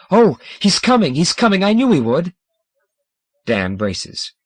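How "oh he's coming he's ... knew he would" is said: high and loud joyful burst; overjoyed. A narrator's reading. Tivanel telling Dan Geodoc comes, overjoyed. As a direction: cry out in delight that he's coming. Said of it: "Tivanel bursts out".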